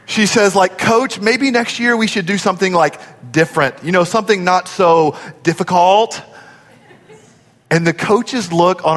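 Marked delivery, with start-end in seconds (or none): 0.8-6.2 lightly voiced college cheerleader; a hint of a perky cheerleader; college cheer voice. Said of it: "I'm gonna do it in my best, like, college cheer voice".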